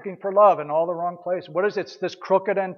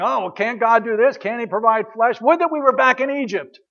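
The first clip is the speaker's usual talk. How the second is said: a higher, whiny complaint that rises toward Egypt; mock grumbling; 5 semitones higher than usual. Israelites in the wilderness complaining against God, mock whine. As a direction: mimic the Israelites moaning. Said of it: "They murmured in the wilderness, grumbling, complaining".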